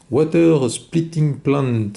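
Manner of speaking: English name read slowly in a heavy French accent; slow, self-mocking Frenchman's English accent. Real, not acted. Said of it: "avec mon superbe accent anglais".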